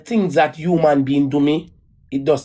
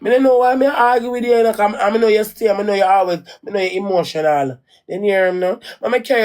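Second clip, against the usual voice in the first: higher, soothing, retold to the ex; retold plea; 4 semitones higher than usual. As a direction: plead gently with him, pitched up. Retelling her plea to Jakes.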